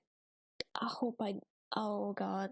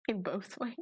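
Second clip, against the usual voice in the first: laughing; 11 semitones higher than usual. Real, not acted. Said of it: "I shouldn't be laughing at this".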